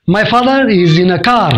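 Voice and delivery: "father" and "car" with the R sounded, slow American accent. Shown as a demonstration. Teacher demonstrates the American accent to students. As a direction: say it the American way, every R clear. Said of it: "America में इसी को बोलेंगे".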